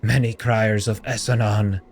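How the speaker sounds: grieving monk. Acted. Grieving crier telling the stranger of his city, solemn. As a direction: mourn it.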